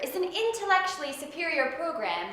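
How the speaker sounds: courtroom lawyer. Acted. Mock courtroom prosecutor questioning.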